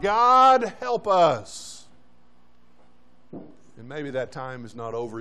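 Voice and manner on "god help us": shouting to God. Acted. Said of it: "we're shouting to God".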